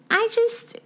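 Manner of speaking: mock whisper. Dramatic confession lead-in.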